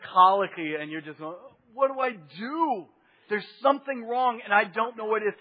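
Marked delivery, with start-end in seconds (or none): 1.7-5.3 frantic parent. Retold or imitated. Preacher imitating a parent with a crying baby, frantic and high. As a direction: plead like a worn-out parent at a colicky baby.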